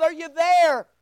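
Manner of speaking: loud called question; yelling down. Acted. King checking whether Daniel is alive, yelling down. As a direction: shout it down into a hole. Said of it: "he yells down".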